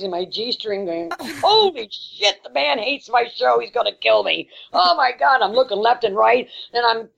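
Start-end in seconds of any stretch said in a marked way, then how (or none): 1.4-5.4 panicked. Retold or imitated. Panicked inner thought on stage.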